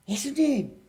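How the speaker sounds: high, loud plea for help; acted panicked cry. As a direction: cry out like disciples in a storm. 제자들이 풍랑 속에 예수님께 외침. (겁에 질려 다급하게 외치는 연기)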